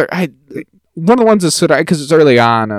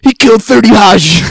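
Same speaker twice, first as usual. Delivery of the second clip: mock boast; 8 semitones higher, 8 dB louder than usual. Mocking the boastful sister line.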